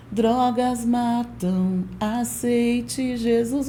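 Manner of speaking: slow Holy Spirit prompt. Retold or imitated. Holy Spirit nudging her to preach to the boy, slowly drawn out. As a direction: draw each word out as a holy nudge. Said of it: "Aí lá vem o Espírito Santo".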